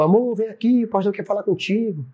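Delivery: calling his wife. Retold or imitated. Husband calls his wife to the pastor, retold calling out. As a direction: call out coaxingly, retelling it.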